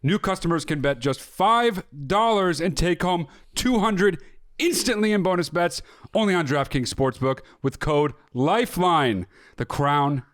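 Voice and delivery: punchy, drawn-out sponsor pitch; hyped ad read. Acted. Host pitching sports betting to listeners, hyped ad read. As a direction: sell it with big stressed key words.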